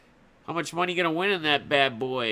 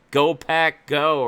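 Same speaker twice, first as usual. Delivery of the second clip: lightly shouted fan chant, louder; half-hearted all-caps cheer; mock screaming; 6 dB louder, slower than usual. Streamer imitating a Packers fan in chat, mock scream. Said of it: "all caps on, screaming".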